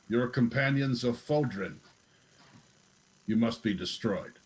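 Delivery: grinding robotic villain voice; metallic voice. Acted. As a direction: grind it out like a machine. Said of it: "grinding metallic voice comes out from underneath the cowl".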